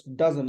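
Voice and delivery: Doesn't as DUZ-unt; "Doesn't" with a weak second syllable; stressed first syllable. Shown as a demonstration. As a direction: say Doesn't with weight on the D. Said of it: "This D has the stress".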